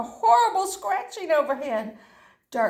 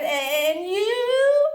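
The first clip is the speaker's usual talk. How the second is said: angry scolding; 2 semitones higher, slower than usual. Acted. Angry leprechaun scolding the dog.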